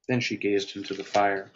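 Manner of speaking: measured, dramatic story read. A narrator's reading. Author reading his story to viewers, measured and dramatic. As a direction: read your story aloud with weight. Reads own story aloud.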